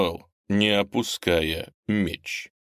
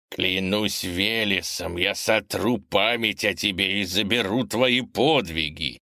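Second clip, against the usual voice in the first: sinister villain hiss. Acted. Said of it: "зловеще прошипел он".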